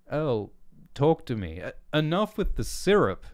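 loud, high, sharp snap at her. A narrator's reading. Erling snapping at Bell over her syrup, loud and sharp. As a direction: bite her head off about the syrup. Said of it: "Erling snapped".

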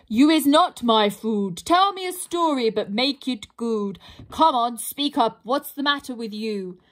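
lightly voiced troll barking orders; bossy troll. Troll demands a good story from the pixie, lightly bossy.

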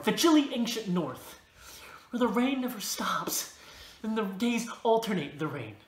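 slow, drawn-out reciting of a vision; poetic incantation. Acted. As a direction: intone it slowly, with pauses between phrases. Intones a poetic vision of rain.

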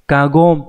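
kagon, said clearly as ka-gon; teacher models kagon; kagon reading. Shown as a demonstration. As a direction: read kagon, not gen. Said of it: "chứ các bạn không đọc là gen nhé".

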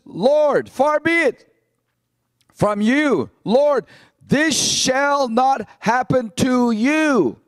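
slow, drawn-out earnest protest; emphatic. Acted. Peter protesting to Jesus, slow and emphatic. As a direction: plead it firmly, stretching each word. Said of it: "pretty emphatic, isn't he?".

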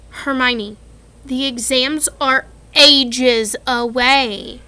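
Ron voice. Acted. Ron complaining about exams.

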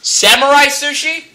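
rising disbelief on samurai; surprised question. Real, not acted. Surprised at brother's order.

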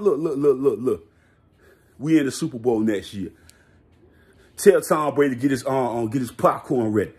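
low, muttered coach voice, barely changed from his own; grumbling coach, understated; Bill Belichick impression. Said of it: "I gotta do my Bill Belichick impression".

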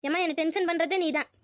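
mildly angry retort; annoyed, tense. Acted. Mother-in-law blaming daughter-in-law for the tension, annoyed. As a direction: throw the blame back, exasperated. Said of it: "இப்படிலாம் கோவப்படாதீங்க, tension ஆகாதீங்க".

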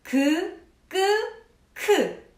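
그, 끄, 크 said as plain, tense and aspirated k sounds; clear velar sounds. Shown as a demonstration. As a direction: sound out 그 끄 크 one by one. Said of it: "닿았다 떨어지면서 나는 소리".

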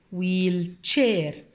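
ويل تشير as two joined English words, wheel-chair; blended word parts. Shown as a demonstration. Teacher puts the sounds together, blended clearly. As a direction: say ويل then تشير, each whole. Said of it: "على بعضيها".

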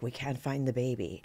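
a rough touch of Scottish; bad Scottish accent. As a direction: imitate a nanny with a shaky grasp of Scottish. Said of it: "that was my bad Scottish accent from The Nanny".

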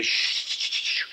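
unvoiced, softly hushing; shushing. Shown as a demonstration. We quiet the wandering mind, soft shushing. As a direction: shush the distraction away. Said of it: "We say".

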